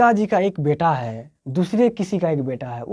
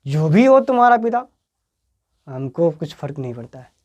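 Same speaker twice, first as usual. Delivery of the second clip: defiant retort; 4 dB louder than usual. Retold or imitated. Madan answering Kasu who boasts of his father, defiant. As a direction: toss it back, unimpressed by his rich father. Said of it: "Madan बोला".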